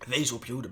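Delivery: "Wees op je hoede" said in native Dutch; "hoede" with a Dutch hoo-duh sound; Dutch phrase. Shown as a demonstration. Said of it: "as we say in the Netherlands".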